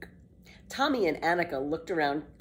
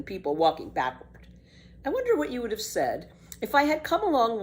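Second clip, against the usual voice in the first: put-on bold, bright-eyed girl, a bit louder; lively girl Pippi; 6 semitones higher, 4 dB louder than usual. Pippi defends walking backward to Tommy, cheeky girl voice.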